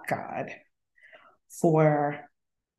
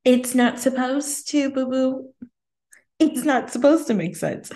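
voicing God; 7 semitones higher than usual. God's answer voiced, higher.

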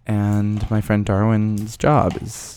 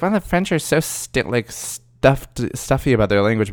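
lightly voiced snob, a bit higher on Wow; mock snooty; 5 semitones higher than usual. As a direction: mimic people calling the French stuffy, lightly. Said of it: "people are always like".

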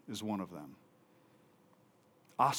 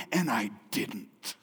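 broken sob; 4 semitones lower, slower than usual. Retold or imitated. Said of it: "And he starts to cry".

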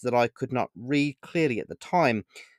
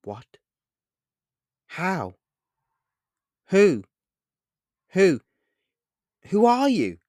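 broken, rising panicked questions, climbing higher; nervous stutter; 8 semitones higher, 7 dB louder, slower than usual. A narrator's reading. Boy stunned by stranger's offer, stammering nervously. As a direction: stammer in shock, pitch climbing. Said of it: "I stuttered nervously in reply".

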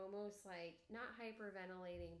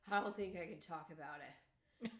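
hint of a subdued boy; 4 semitones lower, 6 dB louder than usual. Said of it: "He goes".

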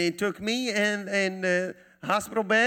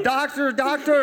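high and louder, joyful laughing cry; echoed scream; 9 semitones higher, 6 dB louder than usual. Retold or imitated. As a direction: mirror the wife's frantic shout.

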